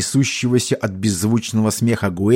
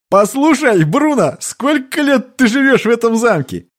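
captain's voice; 12 semitones higher than usual. A narrator's reading. Captain to squire Bruno, stern and pointed. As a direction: press the dim squire with a question.

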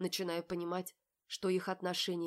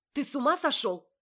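much higher and louder, furious; outraged shout; 9 semitones higher, 11 dB louder than usual. A narrator's reading. Polly yells at Marat in outrage. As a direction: throw it at him.

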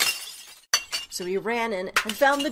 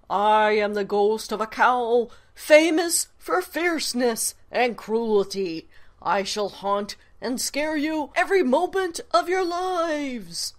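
fierce ghost cow; 2 semitones higher, 5 dB louder than usual. Acted. Ghost cow booming threats at the birthday guests. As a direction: roar it out to terrify the guests.

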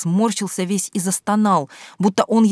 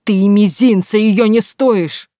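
furious tirade; 5 semitones higher, 6 dB louder than usual. A narrator's reading. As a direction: pour all the rage out on him. Roaring at the lover. (громко и яростно, медленно)

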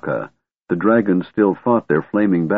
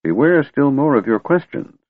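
put-on grumpy old wizard; 8 semitones higher than usual.

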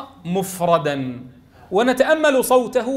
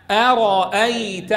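slow joined word; much slower than usual. Shown as a demonstration. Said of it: "قراءتهما مدمجين".

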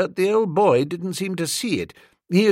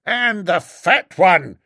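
higher, declaiming soapbox agitator; ranting street orator; 4 semitones higher, 5 dB louder, slower than usual. A narrator's reading. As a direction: harangue the crowd with scorn. Orator resumes.

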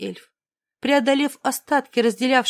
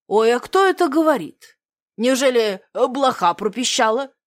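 надменно. Acted. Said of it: "надменно бросил Блашек".

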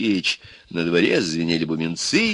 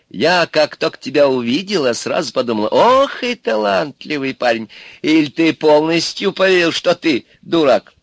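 coaxing Baba Yaga; 6 semitones higher, 4 dB louder than usual. Acted. Baba Yaga flatters Ivan as a talented lad, coaxing. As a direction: play a wheedling old witch.

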